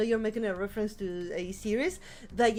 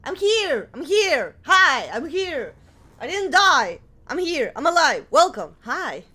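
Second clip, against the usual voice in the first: excited anime fan; 4 semitones higher, 7 dB louder than usual. Real, not acted. Excited yelling greeting.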